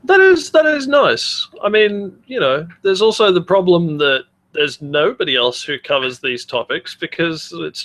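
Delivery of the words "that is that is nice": mock sincere. Mock praise of polite spam bot.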